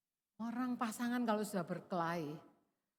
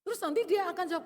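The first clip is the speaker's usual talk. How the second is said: usual speaking voice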